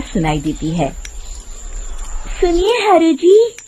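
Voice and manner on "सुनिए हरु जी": luring woman's voice. Acted. A woman's voice calls from forest.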